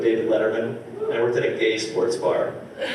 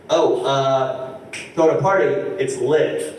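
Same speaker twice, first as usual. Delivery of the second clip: imitating cousin; 3 dB louder, slower than usual. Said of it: "he was like".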